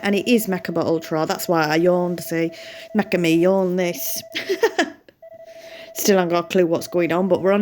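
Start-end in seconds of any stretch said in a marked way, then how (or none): 3.0-4.6 slow, giggling through the words; laughing. Real, not acted. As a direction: laugh as you say it. Laughing at own yawn pun.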